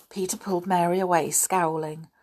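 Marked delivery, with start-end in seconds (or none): none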